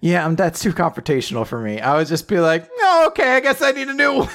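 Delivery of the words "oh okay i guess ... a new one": high, timid, giving in; meek voice. Retold or imitated. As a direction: cave in like a pushover. Meek customer caving.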